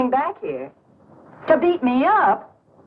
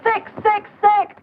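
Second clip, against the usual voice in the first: shrieking disgust; 9 semitones higher, slower than usual. Acted. Kitty spits contempt at suitor.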